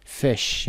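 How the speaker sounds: "فش" with a short, lax vowel near "e". Shown as a demonstration. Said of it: "یعنی صدای ا کوتاه هست". («فش» با صدای کوتاه)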